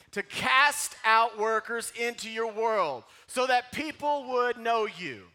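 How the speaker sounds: slow, loud drawn-out plea; slow pleading. Shown as a demonstration. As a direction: drag it out like begging. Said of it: "Say it like you're begging".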